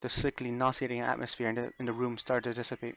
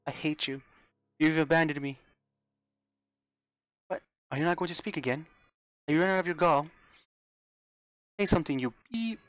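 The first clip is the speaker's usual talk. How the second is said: high, loud furious cry at Mother; tearful scream; 5 semitones higher, 5 dB louder than usual. Acted. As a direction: scream it out through tears. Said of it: "Rosa screamed with tears in her eyes".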